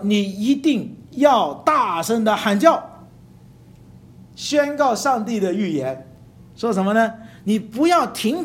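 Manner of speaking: slow, loud proclaiming; loud crying out. Shown as a demonstration. Preacher voicing God's command to the prophet, loud and slow. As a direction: call it out slowly like a herald.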